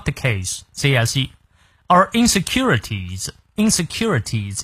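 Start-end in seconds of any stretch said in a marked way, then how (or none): 1.9-4.6 insecurities spelled out slowly, syllable by syllable. Shown as a demonstration. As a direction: take insecurities one syllable at a time. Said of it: "音节也比较多啊".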